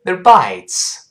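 "They're bites" with a weak, short "they're"; quick reduced reading. Shown as a demonstration. Teacher shows the sound change at speed, quick reading. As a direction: rush "they're" lightly into stressed "bites". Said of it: "快读， 注意发音变化".

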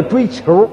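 追求 with an r-coloured ending, like "chasing a ball"; mispronounced 追求. Pretend. Telling of a young woman courting, 追求 mispronounced as zhuī qiúr. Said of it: "那叫追求啊".

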